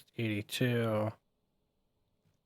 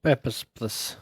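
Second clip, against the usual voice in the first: mock Russian border guard accent; a light Russian guard voice. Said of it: "not doing Russian accent any favors".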